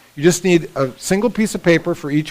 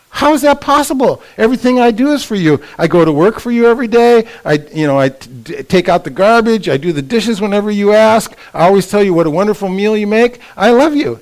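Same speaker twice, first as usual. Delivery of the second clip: imitating exasperated husband; 3 semitones higher than usual. Husband protests in retold argument.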